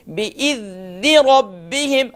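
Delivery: بِإِذْنِ with a soft ذ and no qalqala; a slow, controlled ذ in بِإِذْنِ; soft dhal. Shown as a demonstration. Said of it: "soft کر کے پڑھیں گے". (ذال نرم، بغیر قلقلہ)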